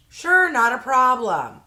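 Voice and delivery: a touch of customer-service sweetness, slow; mock chipper phone agent, slowed down; mock cheery agent. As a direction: lightly play the too-easy agent. Agent's cheerful reply on call.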